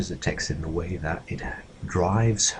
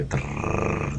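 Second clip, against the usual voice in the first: a mock drum roll rolled on the tongue; 4 semitones lower, 3 dB quieter than usual. Shown as a demonstration. Presenter mimics a drum roll before key news, rolled r. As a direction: roll the r like a little drumbeat. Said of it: "a little drum roll".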